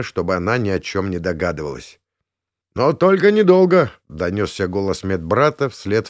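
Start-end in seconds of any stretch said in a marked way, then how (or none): 2.7-3.9 raised voice calling after her; loud parting call from the doorway. A narrator's reading. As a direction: call sharply down the corridor. Medic calling after Zoya.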